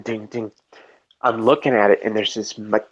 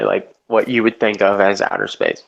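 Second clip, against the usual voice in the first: usual speaking voice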